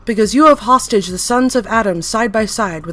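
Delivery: loud zealous tirade; fanatic's tirade; ranting. Acted. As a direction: preach down at the sinner. Entity rants at interviewer.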